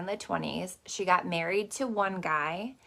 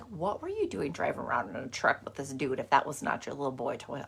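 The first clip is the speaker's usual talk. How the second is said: lower, mock-interrogating tone; teasing accusation; 4 semitones lower, 3 dB quieter than usual. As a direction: tease grandma like catching her out. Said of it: "but I'm like".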